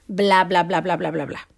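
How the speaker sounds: bla, bla más grave y apagado; retahíla desdeñosa. Retold or imitated. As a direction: despacha la lista con desgana. Resume con desdén argumentos ajenos. (retahíla monótona que se va apagando)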